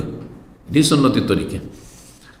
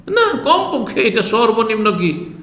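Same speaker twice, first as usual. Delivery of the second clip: mock Arab; 7 semitones higher than usual. Mocking Arabs' food habits.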